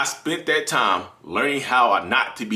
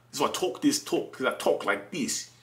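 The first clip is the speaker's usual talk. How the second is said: softer, slower, deliberate delivery; hushed demonstration; 7 dB quieter than usual. Shown as a demonstration. Showing y'all why he talks like this, hushed and deliberate. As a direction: drop the volume and slow down to show the talk.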